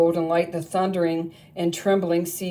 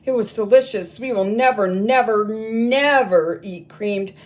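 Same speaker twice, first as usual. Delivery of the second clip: louder, eager vow with repeated never; gleeful cry; 2 semitones higher, 5 dB louder than usual. Acted. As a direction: swear it off with delight. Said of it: "they cried".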